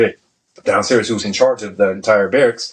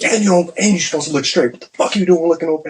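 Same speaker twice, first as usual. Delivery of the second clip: higher-pitched mock drill scolding; retold reprimand; 8 semitones higher than usual. Senior chief to sailor at attention, retold reprimand. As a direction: imitate a chief correcting a sailor's stance.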